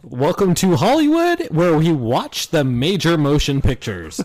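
slow, drawn-out mock American announcer; overpronounced American accent. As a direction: stretch every word in hammed-up American. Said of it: "so we get to do this voice".

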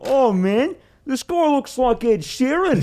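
high, slow drunk-guy impression; town drunk. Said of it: "He's like".

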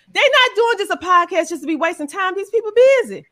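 loud and high, driving the point home; emphatic shout. Real, not acted. Host urging the audience, loud emphatic shout. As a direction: raise your voice to sell it.

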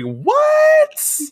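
high, loud delighted yell; excited shout. Real, not acted. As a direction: shout with joy. Excited outburst.

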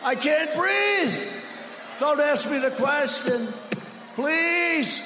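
hammed-up breathless pleading, slowed down; mock a rival who can't breathe on stage; mocking Bloomberg's gasping plea, dragged out. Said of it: "He's going".

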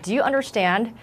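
retelling a firm, stern challenge; a moderately stern retold rebuke. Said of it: "in a really stern voice".

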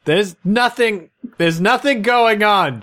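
high, slow, mock-seductive; hammed-up seductive reassurance; sexy voice. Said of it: "don't try the sexy voice".

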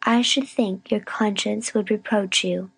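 measured, self-righteous reproach; weary scolding. A narrator's reading. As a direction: lecture her wearily after the long ordeal. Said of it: "long sigh of weariness".

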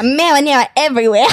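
put-on Brooklyn accent on the edge of laughter; amused mock-Brooklyn accent; trashy Brooklyn woman. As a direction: lightly play a brassy Brooklyn gal. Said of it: "like, a trashy".

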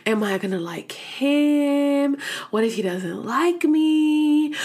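drawn-out, rising worried questions; mock-anxious self-questioning, slow and whiny; acted nervous fretting. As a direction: fret aloud, stretching the ends of questions. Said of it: "the more nervous I am".

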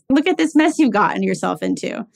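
playful telling-off to get a laugh; joking mock scold. Joking with dad after his surgery, mock scolding. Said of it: "preparing a joke that I would say".

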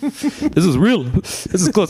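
high, slow, drawn-out mock wonder; mock awed viewer. Guest imitating viewers rewatching up close, mock awe. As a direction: stretch it out high as an amazed fan. Acting out viewers rewinding the clip.

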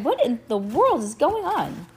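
high, exclaimed question; crying out. A narrator's reading. Mom demanding an explanation downstairs, crying out. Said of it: "she cried".

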